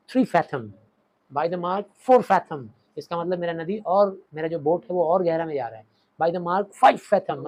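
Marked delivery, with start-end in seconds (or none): 0.1-2.7 drawn-out sounding call, lightly raised; mock boatman's call. Teacher imitating boatmen measuring depth, light drawn call. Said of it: "तो जब वो मापता था". 6.2-7.5 slow, louder depth call; mock boatman's call. Teacher imitating boatmen sounding depth, slow call. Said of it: "तो जब वो मापता था".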